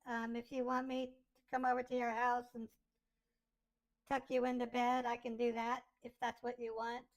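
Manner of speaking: put-on demoing a young girl filter; Lolita voice changer. Shown as a demonstration. Streamer testing a new voice changer, girlish filtered voice. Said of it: "I'm gonna switch over to a Lolita voice".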